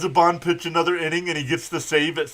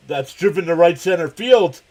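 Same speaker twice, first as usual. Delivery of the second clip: rising, louder play-by-play call with a laugh; excited call; 5 semitones higher, 7 dB louder than usual. Real, not acted. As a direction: call the long hit with growing excitement. Home run call on the broadcast.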